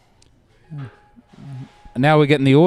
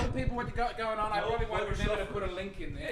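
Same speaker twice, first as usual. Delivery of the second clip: quiet aside; 4 semitones higher, 14 dB quieter than usual. Real, not acted.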